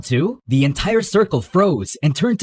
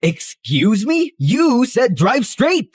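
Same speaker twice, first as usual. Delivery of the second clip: slow, higher-pitched incredulous protest; indignant protest; 7 semitones higher, 3 dB louder, slower than usual. Acted. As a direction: stretch the words in disbelief. Protesting the sudden contradictory order.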